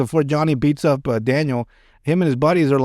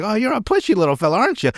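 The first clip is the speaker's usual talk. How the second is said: mock sly sensei; 6 semitones higher, faster than usual. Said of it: "And he's like".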